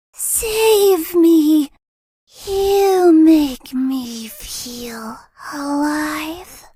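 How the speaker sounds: a pleading ghost calling out; mild eerie plea; creepy ghost plea. Acted. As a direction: reach out like a trapped spirit. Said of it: "Or do I sound kind of creepy".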